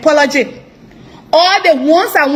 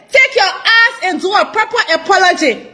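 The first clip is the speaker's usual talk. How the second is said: shouted order for a real apology; furious command; angry demand. Real, not acted. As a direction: yell it at him, fed up. Angry rant at the leader.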